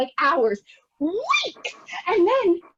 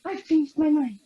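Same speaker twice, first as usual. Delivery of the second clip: tearful dignity; 3 dB quieter than usual. Retold or imitated. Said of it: "and I said".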